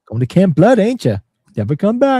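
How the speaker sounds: put-on high, loud crazy old man warning; ominous doom prophet. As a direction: warn campers of doom, hammed up. Continuing Crazy Ralph impression.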